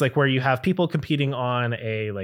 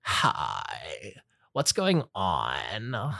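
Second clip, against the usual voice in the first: put-on much lower, slow, soft valley girl accent; 10 semitones lower, 9 dB quieter, much slower than usual. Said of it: "the Valley Girl accent".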